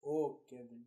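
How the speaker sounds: low hushed soap-opera confession; hammed-up whispered reveal; dramatic reveal. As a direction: drop low and hush the big secret.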